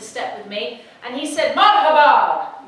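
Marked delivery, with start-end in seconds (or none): 1.6-2.7 slow, loud, high friendly marhaba; young man's slow hello; drawn-out marhaba. Retold or imitated. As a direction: stretch the greeting out warmly. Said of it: "like this".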